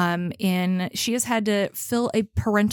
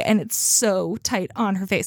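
ordinary talk, nothing marked

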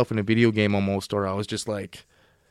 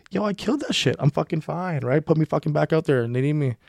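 high-pitched retold protest; acted-out cocky insistence, voice pitched up; insistent protest; 5 semitones higher than usual. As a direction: plead your case to the doctor. Retold plea to be put back.

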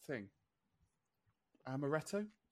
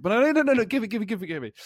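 put-on high, insistent child begging; whiny kid demand; 7 semitones higher, 7 dB louder, faster than usual. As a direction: beg like a greedy five-year-old.

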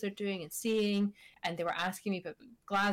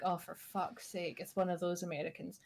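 inner exasperated groan; 2 semitones lower, 7 dB quieter than usual. Retold or imitated. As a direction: sigh it to yourself in disbelief. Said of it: "And in my head".

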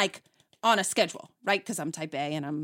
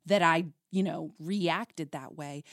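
low, subdued retold apology; understated contrite tone; humbled apology; 4 semitones lower, 4 dB quieter than usual. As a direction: apologize softly and humbly, voice dropped. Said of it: "call and apologize and humble myself".

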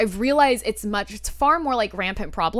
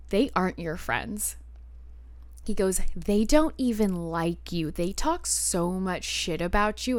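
slow, quieter imitation of a cutting boyfriend; retold put-down; 2 semitones lower, 4 dB quieter, slower than usual. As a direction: deliver the put-down slowly and deliberately.

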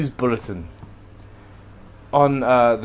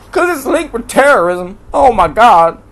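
high, loud mock alarm; hammed-up outraged panic; 8 semitones higher, 7 dB louder than usual. Ranting host parodies people who link migrants with terrorism, mock panic. Mocking fears about immigrants.

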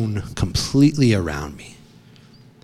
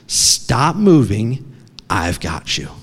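father's steady reassurance; 2 semitones lower, slower than usual. Retold or imitated. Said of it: "he's like".

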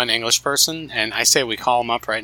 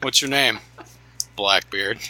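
jolly barkeep; slower than usual. Pretend. Pub landlord greeting Blackbeard.

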